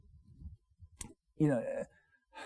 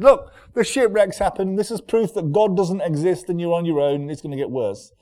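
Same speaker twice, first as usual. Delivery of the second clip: louder and higher, a mock heavenly announcer; mocking angel voice; 4 semitones higher, 6 dB louder than usual. Pastor imitating an imagined angel, mock loud announcement. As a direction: boom it down like a sneering angel from the sky. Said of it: "an angel appear in the sky and said".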